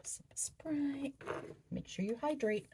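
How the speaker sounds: soft whispered aside; whispering. Real, not acted. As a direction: breathe it to yourself. Aside while eating.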